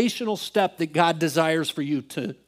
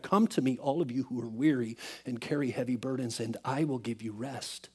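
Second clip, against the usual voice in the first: soft, tender scripture quote; gentle invitation; 4 semitones lower, 8 dB quieter than usual. Retold or imitated. Jesus to the weary with heavy burdens, gentle invitation. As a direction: lower and quieter, offering rest.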